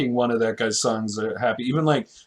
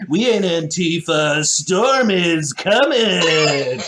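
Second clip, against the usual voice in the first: mock radio DJ intro. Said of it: "I'll do the intro".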